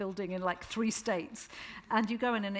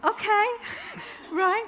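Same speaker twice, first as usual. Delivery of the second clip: laughing disbelief; 13 semitones higher, 7 dB louder, slower than usual. Retold or imitated. Retold own baffled reaction.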